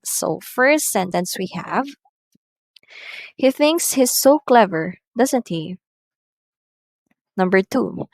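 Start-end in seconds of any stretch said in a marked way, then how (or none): 3.3-5.8 high statement, then "doesn't he" drops; falling tag question. Shown as a demonstration. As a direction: let "doesn't he" fall, seeking agreement. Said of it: "we use a falling tone".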